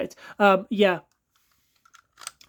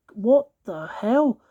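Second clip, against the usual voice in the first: slow, drawn-out what the hell; slow disbelief; 3 semitones higher, 3 dB louder, much slower than usual. Real, not acted. Toy reviewer seeing gunk everywhere, slow disbelief. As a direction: let the disbelief stretch out.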